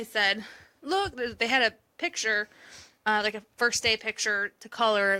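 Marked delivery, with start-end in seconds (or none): 0.8-1.1 bright cheerful look. Retold or imitated. Mom cheering up daughter.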